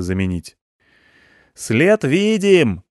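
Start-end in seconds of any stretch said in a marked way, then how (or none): 1.5-2.8 slow, loud high shout; yelled. Acted. Stepanych to blinded Ivan, yelling. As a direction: bellow the news across the cab. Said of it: "заорал мне Степаныч".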